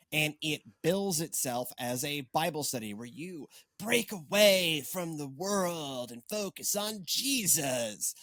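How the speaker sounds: laid-back stoner voice. Acted. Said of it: "because I use my stoner voice".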